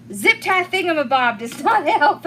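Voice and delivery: real giggle breaking through the words; amused, laughing mid-sentence. Real, not acted. Laughing at a viewer's term.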